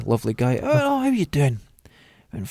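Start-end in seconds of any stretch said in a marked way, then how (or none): 0.6-1.6 much higher, eager greeting voice; imitating coworker. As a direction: mimic the old coworker's cheerful hello, pitched high. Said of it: "the autistic guy".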